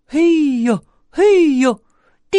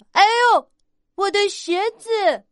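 sudden high yelp of surprise; mild startled cry as the shoe flies off; 5 semitones higher than usual. Acted. Bear trips in big shoes.

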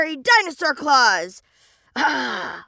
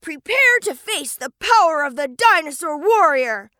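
heroic battle cry. Acted.

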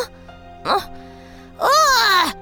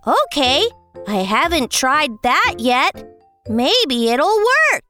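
expectant; 8 semitones higher than usual. Acted. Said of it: "said expectantly".

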